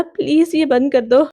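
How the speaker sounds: understated frightened plea; mildly scared. Acted. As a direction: beg with a touch of fear. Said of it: "वो डरा हुआ बोला". (हल्के डर से विनती)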